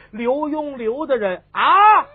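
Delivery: loud, high, drawn-out plea; urgent alarm. Acted. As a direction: stretch out the name in distress. Breaking alarming news to empress dowager.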